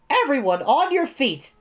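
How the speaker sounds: barked order, loud and high; drill sergeant. A narrator's reading. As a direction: command the class like a sergeant. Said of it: "sounded like a drill sergeant".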